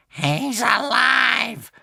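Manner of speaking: cursed. Acted. Witch learning Hiccup survived, bitter curse. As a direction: spit it out in disgust. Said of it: "cursed the witch".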